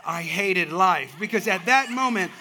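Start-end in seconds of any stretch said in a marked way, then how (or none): 0.0-1.1 despairing Solomon quote. Retold or imitated. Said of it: "what Solomon must have felt".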